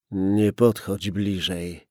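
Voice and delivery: slow "Nie podchodź bliżej", pushed out with effort; hoarse, strained. Acted. Gunman warning the policeman from inside, hoarse and strained. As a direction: squeeze each word out with effort. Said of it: "Głos był ochrypły i wydobywał się z wyraźnym wysiłkiem".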